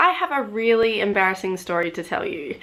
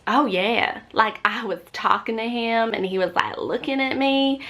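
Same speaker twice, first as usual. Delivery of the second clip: lightly put-on non-Australian accent; 2 semitones higher than usual. Shown as a demonstration. Showing the accent she switches out of, lightly put on. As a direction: slip into a borrowed accent. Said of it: "Like, I'll go from this".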